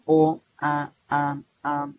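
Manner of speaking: vocales abiertas pronunciadas sueltas, una a una; vocales aisladas. Shown as a demonstration. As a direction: di O, A y A aparte y claras. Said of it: "la vocal abierta". (vocales abiertas sueltas)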